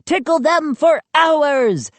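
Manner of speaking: high-pitched gleeful gnome; excited high gnome voice; suggesting gnome. A narrator's reading. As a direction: pipe up eagerly with the idea. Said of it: "a gnome in front suggested".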